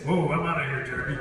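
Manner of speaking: quick loud startled cry to a friend; bolting from the bees, calling back; startled kid yelp. Retold or imitated. Kid bolting from bees, calls to friend: startled yelp.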